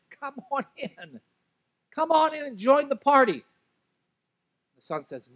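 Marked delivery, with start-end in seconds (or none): 0.1-3.4 pleading father. Acted. Father pleading with his sulking son to come in, coaxing. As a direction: gently coax him inside. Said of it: "begins to plead with him".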